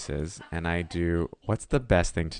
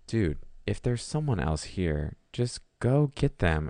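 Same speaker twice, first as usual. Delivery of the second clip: slow, rising exasperation; mock exasperated; 4 semitones higher, slower than usual. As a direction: drag it out, getting fed up. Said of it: "'Cause I'm like".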